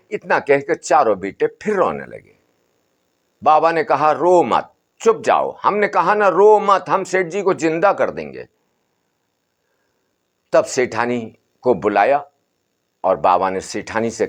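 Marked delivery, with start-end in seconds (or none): 4.1-8.5 lightly raised, soothing holy man; a hint of an old sadhu calming the family; Baba's voice. बाबा चुप कराता. (बाबा की हल्की ऊँची, समझाती आवाज़)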